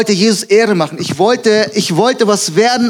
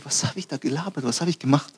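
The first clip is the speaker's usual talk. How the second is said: very quiet, lower thinking-to-himself voice; reumütiger Gedanke; 4 semitones lower, 12 dB quieter, faster than usual. Retold or imitated. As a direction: think it aloud softly, appalled at yourself. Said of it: "ich denk mir". (leise, reumütig zu sich selbst)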